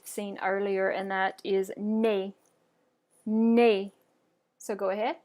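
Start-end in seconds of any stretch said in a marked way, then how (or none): 1.8-2.3 French "nez" said as "nay"; silent final Z. Shown as a demonstration. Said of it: "a word ending in a Z". 3.2-3.9 French "Nez" said as "nay"; silent final Z. Shown as a demonstration. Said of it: "a word ending in a Z".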